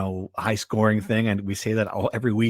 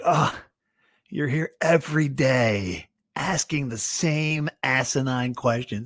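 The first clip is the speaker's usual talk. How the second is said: mock exasperated coach; 3 semitones higher, slower than usual. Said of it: "for us, it's like".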